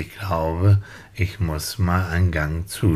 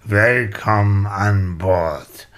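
airline pilot announcement. Pretend. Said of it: "hier spricht Ihr Flugkapitän".

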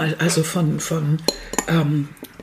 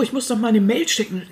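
indignant; 4 semitones higher than usual. Retold or imitated. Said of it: "im Brustton der Entrüstung".

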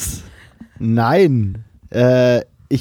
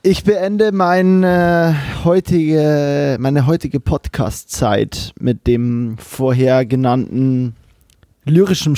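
formal closing; slower than usual. Acted. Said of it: "lese das jetzt vor als Ende".

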